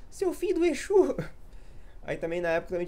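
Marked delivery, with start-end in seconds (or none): 0.1-1.2 put-on much higher, louder kid's squeaky insult. Boy from the Bahia Fight video yelling back in a squeaky voice. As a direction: squeal it like a bullied kid snapping back. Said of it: "ele falava isso".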